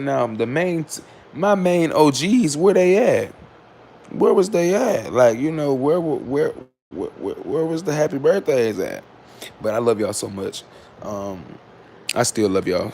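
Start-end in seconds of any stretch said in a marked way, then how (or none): 0.0-9.0 mock complaining. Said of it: "I said".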